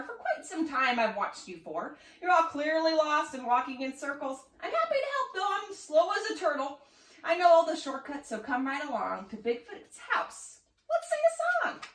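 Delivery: high, cheerful slug voice; chirpy little slug; slug character voice. Acted. Banana slug character speaks.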